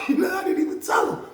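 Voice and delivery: high, loud burst of laughter over the words; laughing shout. Real, not acted. Telling friends the story, laughing loudly.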